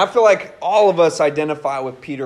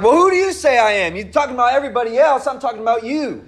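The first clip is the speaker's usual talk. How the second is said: pressing Jesus; 5 semitones higher, faster than usual. Retold or imitated. Jesus pressing his disciples for their own answer, challenging. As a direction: push the disciples for a real answer. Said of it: "Jesus is like".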